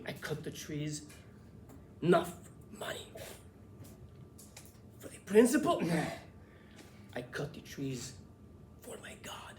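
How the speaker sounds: solemn, halting custodian with long pauses; Carlos. Retold or imitated. Custodian explaining why he cuts trees, very serious. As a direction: drop to a near-whisper, weighing each phrase gravely. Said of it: "That's how he talked, very serious".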